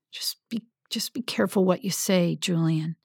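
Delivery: soft, half-whispered caution; hushed warning. Acted. Adam hushes his friend so nobody overhears, quiet warning. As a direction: warn him under your breath. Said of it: "Adam warned".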